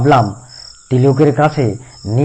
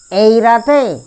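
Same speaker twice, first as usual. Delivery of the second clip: surprised servant; 7 semitones higher, 3 dB louder, slower than usual. A narrator's reading. Tilak surprised at night trip.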